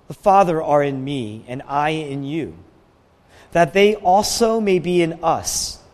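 measured prayerful reading with pauses; solemn scripture reading. Acted. Preacher reading Jesus' prayer to the Father, solemnly. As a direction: read it as a heartfelt prayer.

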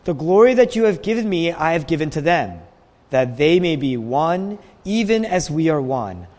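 measured prayerful reading with pauses; solemn scripture reading. Acted. Preacher reading Jesus' prayer to the Father, solemnly. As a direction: read it as a heartfelt prayer.

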